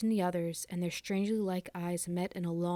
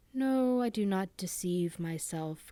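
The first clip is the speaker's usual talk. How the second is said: put-on slow, menacing old man; terrible smile; slower than usual. Dying father to the lovers, slowly and menacingly. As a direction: let a cruel smile colour each word. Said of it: "smiling terribly".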